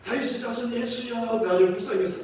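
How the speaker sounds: retold pleading call; imitated loud plea. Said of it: "계속 큰 소리로 말하니까".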